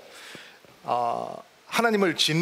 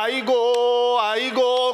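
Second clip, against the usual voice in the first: mock wailing; 4 semitones higher, 4 dB louder, much slower than usual. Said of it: "훌쩍훌쩍 우는 게 아니라".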